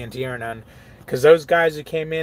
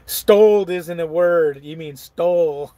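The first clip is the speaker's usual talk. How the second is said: imitating daughter; 2 semitones higher, 5 dB louder than usual. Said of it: "She's like".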